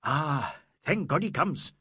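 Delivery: high exclamation of relief; exclaiming. A narrator's reading. Inspector seeing the prisoner come, exclaiming in relief. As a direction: exclaim it, lifting the pitch. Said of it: "the inspector exclaimed".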